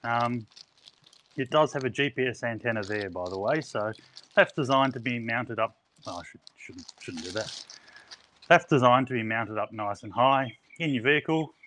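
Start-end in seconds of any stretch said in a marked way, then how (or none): 6.1-7.6 muttered aside. Real, not acted. Self-correcting mutter aside.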